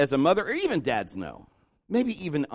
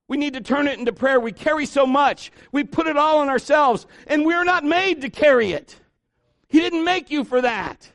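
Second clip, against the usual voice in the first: high, driving sermon delivery; impassioned preaching; 8 semitones higher, 4 dB louder than usual. Real, not acted. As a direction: press each sentence home to the congregation. Preaches with raised intensity.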